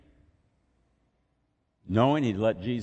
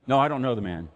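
loud, flat denial of knowing him; firm denial; 3 semitones higher, 5 dB louder, faster than usual. Retold or imitated. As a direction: push the man away with a hard no. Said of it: "That's what Peter says".

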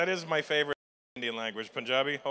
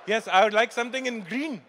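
hammed-up order at a counter, higher and louder; mock customer order; 7 semitones higher, 6 dB louder than usual. Mocking the man in green shirt, ordering. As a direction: play a customer asking for green.

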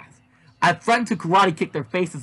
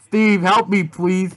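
put-on pleading girl; 4 semitones higher, 4 dB louder, much slower than usual. Yazzie pleads through duct tape.

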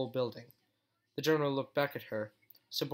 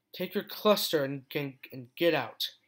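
angry dismissal; 4 dB louder, slower than usual. Acted. Furious dismissal of general.

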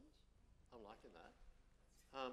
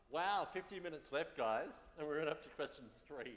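laughing disbelief; 5 semitones higher, 10 dB louder than usual. Real, not acted. Host laughing at time left.

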